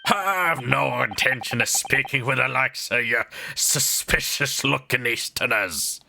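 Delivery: a hint of a Scottish sneer; disdainful Scot dismissing him; light Scottish governor. Governor refusing to speak to Easterners, lightly Scottish. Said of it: "Scottish dude".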